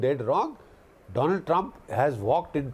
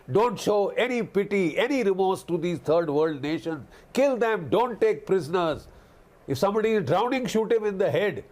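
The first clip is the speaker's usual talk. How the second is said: raised, hammed-up voice of a ruthless commander, faster at the end; mock brutal commander; 3 semitones higher than usual. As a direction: mimic a thug barking orders, pitched higher. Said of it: "you don't sound like a professional soldier".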